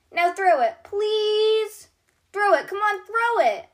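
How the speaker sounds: high and loud, impatient for the ball; eager pleading. A narrator's reading. Bronte urging Stuffy to throw the ball. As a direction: bounce on your toes begging.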